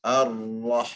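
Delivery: Ar-rah drawn out with the r held through; slow Ar-rah, r carried into rah; ra completed. Shown as a demonstration. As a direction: say Ar-rah finishing the r with the tongue, no lips. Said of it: "complete the ra from here".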